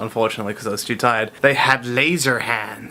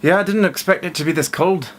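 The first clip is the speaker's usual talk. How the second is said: put-on botched Irish accent that lands in Scottish, pitched higher; failed Irish accent; 4 semitones higher than usual. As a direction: have another go at Irish and end up Scottish. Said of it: "failing to do an Irish accent".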